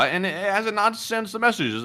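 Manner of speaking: slow reading. Real, not acted. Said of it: "wait, hold on, let me start over".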